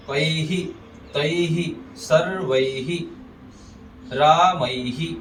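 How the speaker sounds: कैहि, तैहि, सर्वैहि, रामैहि with drawn "a-ee" then "hi"; ai visarga. Shown as a demonstration. Teacher models examples, कैहि, तैहि, सर्वैहि, रामैहि slowly with "hi". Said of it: "ऐसे उच्चारण करेंगे".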